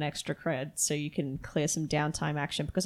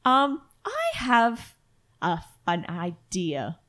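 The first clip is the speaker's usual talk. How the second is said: awkward Xavier voice; 3 semitones higher, 3 dB louder, slower than usual. Acted. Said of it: "and he's like".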